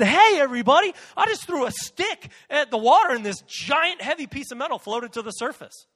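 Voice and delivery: preacher playing himself announcing a miracle; mock excited announcement. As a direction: burst in with the news. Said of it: "If I walked into a Baptist church and said".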